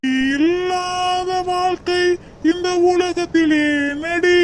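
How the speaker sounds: drawn-out, aching promise, slow; a heartbroken slow pledge; slow tearful vow. Acted. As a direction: swear it slowly through tears. Slow vow to absent lover.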